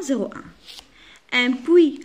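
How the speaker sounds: "zéro un" stretched out very slowly, syllable by syllable; slow dictation. Shown as a demonstration. Teacher to pupils showing the strokes, very slow. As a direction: draw out "zéro un" as if tracing each stroke. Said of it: "Alors, zéro un".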